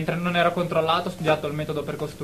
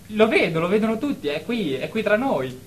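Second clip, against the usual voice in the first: insistent protest; 5 semitones higher than usual. Acted. Patient insists the alien is real.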